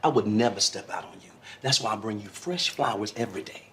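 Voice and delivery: low, soft reassurance to a partner; placating. Acted. Husband pleading his love to suspicious wife, low placating. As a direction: soothe them in a low, hushed voice.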